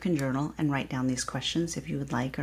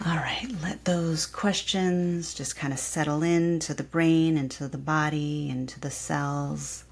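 guided meditation. Acted. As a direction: ease them into stillness.

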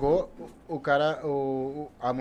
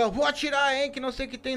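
high woman's voice, threatening; shrill threatening woman; 11 semitones higher than usual. Retold or imitated. Woman threatens again, much higher. (mulher ameaçando com voz aguda)

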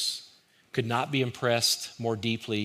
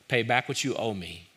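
firm demand. Retold or imitated. The servant demanding that his fellow servant repay the debt, insisting. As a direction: press the debtor hard. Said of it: "he demanded".

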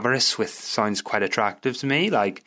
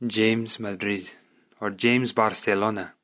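lightly Spanish-accented city names; put-on Spanish accent. Shown as a demonstration. Podcaster trying cities as surnames, Spanish accent. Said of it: "I'm putting on this accent".

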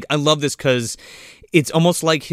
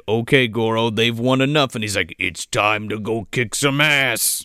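low menacing sorcerer voice; 5 semitones lower than usual. Retold or imitated. Voicing Shang Tsung to Goro.

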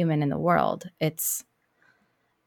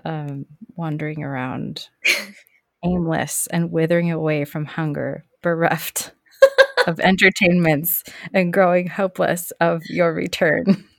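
mock melodrama; 4 dB louder than usual. Mock dramatic plea of hungry children.

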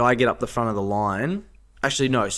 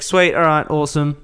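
higher, louder cheerful approval; pleased; 6 semitones higher, 4 dB louder than usual. Retold or imitated. Told the tab is empty, happily higher and louder. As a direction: chirp it happily.

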